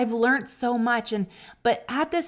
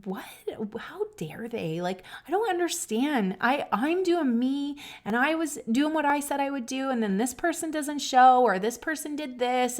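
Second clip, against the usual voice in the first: indignant; 4 semitones higher than usual. Retold or imitated. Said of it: "you get in your own head and you're like".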